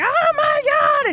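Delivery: imitated anguished scream; mock scream. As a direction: ham up a scream of despair. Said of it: "Hank's screaming".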